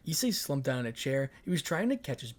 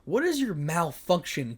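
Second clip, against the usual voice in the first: angry demand; 4 semitones higher, 5 dB louder, slower than usual. Acted. Issei confronts Ria.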